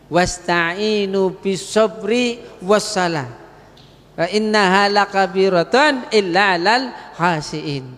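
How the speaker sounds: slow, chanted Arabic verse; Arabic recitation inside an Indonesian sermon; Quran recitation. Acted.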